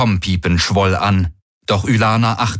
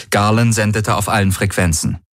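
ordinary delivery, nothing marked

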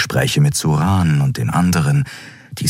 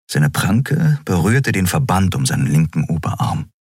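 usual speaking voice

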